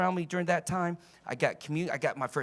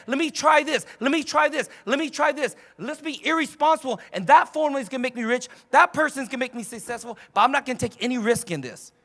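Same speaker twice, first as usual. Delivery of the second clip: irresponsible debtor; 6 semitones higher, 6 dB louder than usual. Retold or imitated. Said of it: "Debt is".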